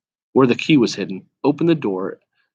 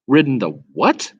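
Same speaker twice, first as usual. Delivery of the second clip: extreme contempt; 2 semitones higher than usual. Acted. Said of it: "retorted the horse with extreme contempt".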